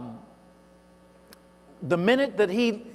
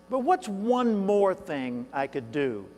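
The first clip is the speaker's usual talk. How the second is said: pondering question to himself; slower than usual. Retold or imitated. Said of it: "He asked himself on the way out".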